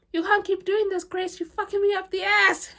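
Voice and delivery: high, loud quote of the boss, cracking up; laughing through quote. Retold or imitated. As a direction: push his line out while laughing. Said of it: "And he's like".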